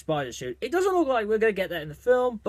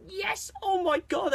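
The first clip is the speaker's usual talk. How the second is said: much higher, breathless-sounding joy, slowed; excited fan cry; 12 semitones higher, 3 dB quieter, slower than usual. Retold or imitated. Fan retelling his reaction to Spider-Man's first look, high delighted cry. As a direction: savour the reveal in a high thrilled voice. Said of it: "I was screaming my head".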